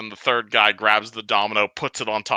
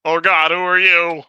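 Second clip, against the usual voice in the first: high, loud startled goblin; 7 semitones higher, 4 dB louder than usual. Acted. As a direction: yelp it out nervously.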